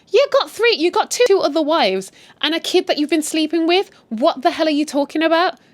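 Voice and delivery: loud, high, scornful yell; shouting back. Retold or imitated. Wife yelling at her cheating husband, high and scornful. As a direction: throw his wives back at him.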